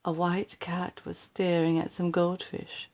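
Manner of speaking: soft unvoiced whisper. A narrator's reading. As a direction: hush it, danger is near. Quiet danger, cat watching.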